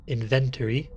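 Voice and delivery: "inventory" with a full -tory ending; alternative pronunciation. Shown as a demonstration. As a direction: say "inventory" as IN-ven-tor-ee, all syllables sounded. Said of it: "I hear some people pronounce it inventory".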